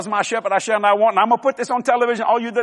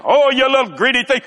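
higher pretend telling-off of a child; mock scolding; 3 semitones higher, 4 dB louder than usual. Parent to child in a store, mock scolding. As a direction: scold a little one in jest, pitch lifted.

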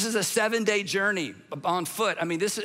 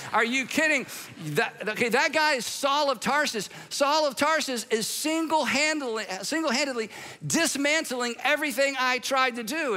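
higher, animated disbelief; incredulous Son; 6 semitones higher than usual. Retold or imitated. God the Son protests that Saul wrecks everything, mock outraged. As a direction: throw it up high, mock outraged. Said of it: "Anyway, he says".

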